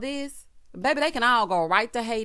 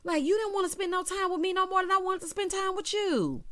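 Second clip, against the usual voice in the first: imitating Portia; 10 semitones higher than usual. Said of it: "She said".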